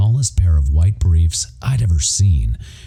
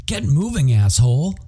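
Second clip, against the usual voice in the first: yelling driver; 8 semitones higher than usual. Acted.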